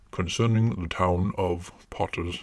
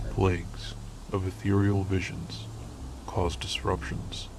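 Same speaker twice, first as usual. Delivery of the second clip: whispering; 5 dB quieter than usual. Acted. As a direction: breathe it like a ghost story. Eerie whispered intro.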